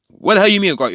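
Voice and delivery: high-pitched acted disbelief; retold incredulous outburst; indignant disbelief. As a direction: challenge them, taken aback. Villain reacting with disbelief.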